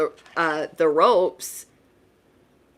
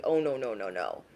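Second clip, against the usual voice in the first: fading, much softer and lower; trailing, horrified little no's; dismayed no; 7 semitones lower, 10 dB quieter than usual. Retold or imitated. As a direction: let the no's die away in dismay. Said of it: "and you're like".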